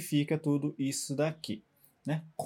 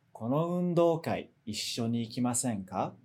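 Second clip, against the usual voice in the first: invitation losing force towards "ikimasen ka"; descending intonation; 5 semitones lower than usual. Shown as a demonstration. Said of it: "vai perdendo um pouquinho de força".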